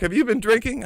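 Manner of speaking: high, pointed questioning; a suspicious cop asks; lady cop voice. Retold or imitated.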